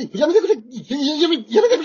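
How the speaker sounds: retold protest. Husband retelling how he begged his wife, pleading shout. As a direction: cry out no, stop it. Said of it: "って言ったんですが".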